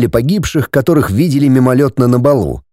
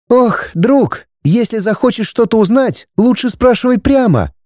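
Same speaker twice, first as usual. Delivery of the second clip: put-on higher, sighing young woman; 9 semitones higher than usual. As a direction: say it with a weary sigh. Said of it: "вздохнула девушка".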